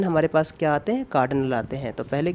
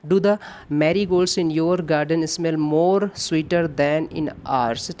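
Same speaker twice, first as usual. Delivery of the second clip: reading the sentence out word by word, very slowly; slow dictation read; much slower than usual. Shown as a demonstration. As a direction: spell out the question sentence for students. Reads exam sentence aloud slowly. (धीमी गति से वाक्य पढ़ना)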